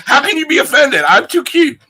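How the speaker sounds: very high, squeaky cute creature voice; cutesy protest. Pretend. Kobold host answering a worry about offending, high cutesy squeal. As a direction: squeal it in mock innocence.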